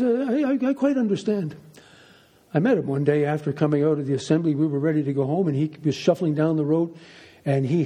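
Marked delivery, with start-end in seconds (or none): 0.0-1.5 lightly voiced old priest, pitched higher; a hint of an elderly priest, stammering at the start; Mister Donnelly. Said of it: "He was ninety-four at the time".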